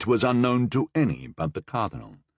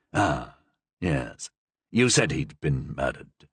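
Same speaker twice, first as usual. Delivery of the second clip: lightly voiced dry cardinal; 9 semitones lower, slower than usual. The Cardinal recalls.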